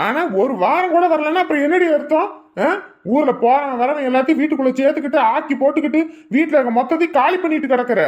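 high-pitched scolding rant; angry rant. Acted. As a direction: rant at her about the guests. Husband ranting about guests.

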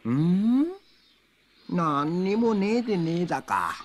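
lightly voiced rustic old man; a hint of a drawling village man.

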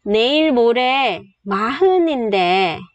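breathy whispered Korean line. Shown as a demonstration. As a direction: say it in a whisper, almost no voice. Teacher models Korean sentence.

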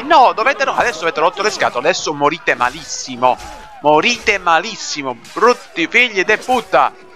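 exasperated yelling at enemies; losing patience mid-fight; frustrated. Real, not acted.

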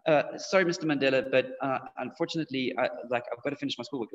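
hesitant, polite apology; respectful. Acted. Student turning down Mister Mandela's invitation, respectful. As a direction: make a soft, fumbling excuse. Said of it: "You would be respectful".

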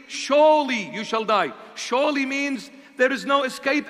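stern God warning. Acted.

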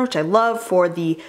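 breathless, a little winded; out of breath. Real, not acted. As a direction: talk while short of breath. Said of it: "Why am I out of breath right now?".

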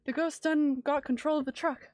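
loud, frantic trucker voice; panicked trucker shout. Acted. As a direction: yell it like the truck's out of control. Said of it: "is this the Canadian speech?".

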